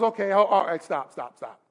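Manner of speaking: low, soft, casual brush-off; calm them down quietly, imitating a laid-back prophet; understated low "enough already" voice; amused, unbothered Elijah. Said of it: "he's just laughing".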